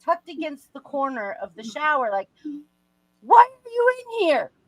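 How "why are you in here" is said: mock very high, loud, frantic, panicked yelling. Retelling being caught in the shower by the dad: retelling yelling back. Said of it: "I'm yelling back".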